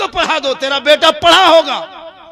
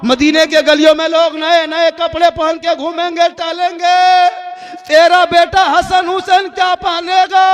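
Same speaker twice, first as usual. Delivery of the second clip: lightly voiced son, a little higher, begging; pleading child; 4 semitones higher than usual. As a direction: whine for new clothes like a small boy. Sons beg mother for clothes.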